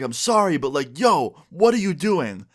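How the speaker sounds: high, exasperated retold outburst; indignant protest. Student protests to teacher about the gum, mock indignant protest. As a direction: re-enact an outraged student protesting.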